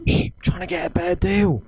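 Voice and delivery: hushing aside in a put-on Cockney accent; Del Boy. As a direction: shush them, keeping up the Cockney act. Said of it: "why are you talking like that".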